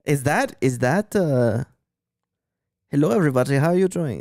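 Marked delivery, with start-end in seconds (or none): 2.9-4.2 lightly put-on German accent. Shown as a demonstration. Checking with friend whether it's German, German accent. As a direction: test out a greeting in a German accent. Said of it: "that's German right there".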